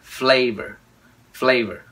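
"Flavor" with a clear opening f; attention to F. Shown as a demonstration. Teacher drills learners on F, "Flavor" said singly. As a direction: begin "Flavor" on a careful f before the l. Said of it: "Cái chữ F ha".

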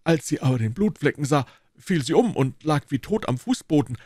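a guilty constable pleading innocence; mildly voiced, embarrassed guard; sheepish constable.

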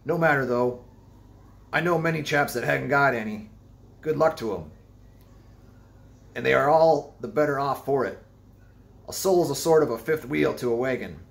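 high, loud rambling seaman; eccentric old sailor. A narrator's reading. Stranger's rambling.

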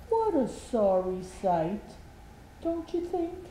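lightly voiced hopeful Mister Happy. Mister Happy coaxing Little Miss Giggles, mildly hopeful. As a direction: coax her to giggle, a touch of hope. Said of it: "he said hopefully".

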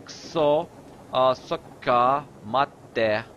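сока said slowly with doubled consonant; drawn-out slow review of сока, мате; slow demo of doubled sounds. Shown as a demonstration. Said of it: "doubling of the consonants".

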